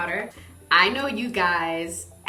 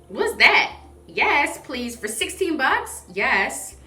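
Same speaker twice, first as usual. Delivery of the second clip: excited; 5 semitones higher, 6 dB louder, slower than usual. Retold or imitated. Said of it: "And I was like".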